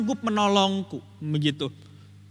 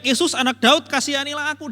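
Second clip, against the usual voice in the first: beggar crying out; 4 semitones higher, 3 dB louder than usual. Retold or imitated. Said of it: "dia berteriak".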